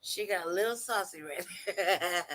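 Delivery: real chuckle through the words; amused laughing. Real, not acted. Host teasing a saucy moment in the clip, amused laughing. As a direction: say it while breaking into a laugh.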